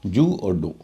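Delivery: "जू" and "डो" said as two separate pieces; "जू" apart from "डो"; split into syllables. Shown as a demonstration. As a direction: break the word into "जू", then "डो". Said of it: "दो हिस्सों में बांट कर बोलते हैं".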